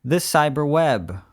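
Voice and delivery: high, strained wail into the announcement; hammed-up, high ritual shout; mock jack-in yell. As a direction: blast a high drawn-out cry, then ease off. Performs the show's jack-in ritual.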